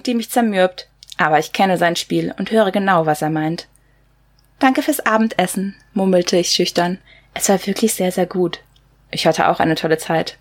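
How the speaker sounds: measured, slightly subdued reading of a novel; lightly restrained book-reading voice; story narration. Acted. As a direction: read the excerpt aloud as the first-person narrator. Reads a novel excerpt aloud.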